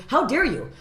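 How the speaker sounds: high, loud indignant quote; mock outrage. Comic retelling her rebuke to a critic, mock outrage. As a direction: act offended with pitch jumping up. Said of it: "I go".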